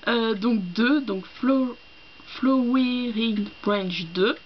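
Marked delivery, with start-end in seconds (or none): 1.4-4.0 slow, careful French-accented English; halting French accent on English; bad English accent. Real, not acted. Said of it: "mon accent anglais tout pourri".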